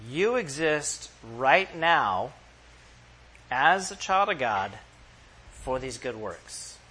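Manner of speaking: slow, each phrase set apart; slow and weighty. Acted. Pastor tells the congregation why they exist, slow and weighty. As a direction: let every phrase land with pauses. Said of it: "if I could say it like this".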